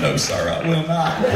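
slow, laughing Clinton drawl; slow it down, a touch of Clinton; Bill Clinton impression. Replaying his accidental Clinton voice, slowed and amused. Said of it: "I just sound like Bill Clinton just then".

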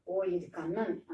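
slow, drawn-out "ఓ, ఇది Kannan" with a stretched ఓ; wondering surprise. Retold or imitated. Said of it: "ఇప్పుడు ఆశ్చర్యంగా అంటుంది".

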